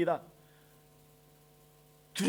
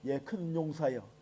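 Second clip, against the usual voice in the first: quiet, slow sarcastic "예, 큰 용사여"; mock "큰 용사여" in a low, quiet, slow scoffing tone; 7 semitones lower, 12 dB quieter, slower than usual. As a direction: sneer it softly, much lower. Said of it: "이건 조롱입니다".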